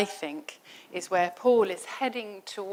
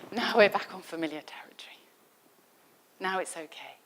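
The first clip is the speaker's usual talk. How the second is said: relieved whisper; faster than usual. Retold or imitated. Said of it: "because they're just like".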